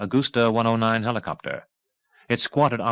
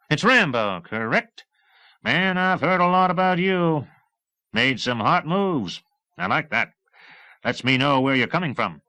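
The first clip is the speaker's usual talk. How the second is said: much higher, louder breezy chatter; jaunty talkative flyboy; high, loud brash pilot; cheerful pilot; 7 semitones higher, 3 dB louder than usual. A narrator's reading. Erickson voice continues.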